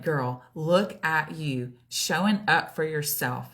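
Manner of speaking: building pep talk to oneself; encouraging self-talk. Retold or imitated. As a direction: cheer yourself on, emphatically. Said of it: "I just had to flip my mind".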